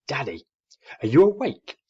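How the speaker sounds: calling up loudly to his father; a small owlet shouting to wake Daddy; loud child call. A narrator's reading. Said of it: "he said loudly".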